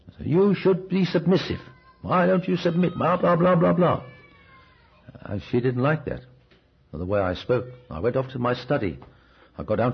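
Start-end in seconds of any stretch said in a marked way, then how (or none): 0.3-4.0 higher-pitched lecturing at the wife, lightly hammed-up; mock angry scolding. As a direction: scold her as the self-important head of the house. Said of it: "I got angry. And I let her have it".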